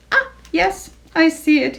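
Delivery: snorted horse voice; snorting horse. Acted. Mister Brown the horse sees it, snorting. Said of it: "he snorted finally".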